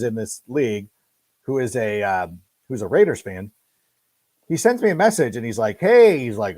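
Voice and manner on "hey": mock friend. Friend's cryptic message voiced.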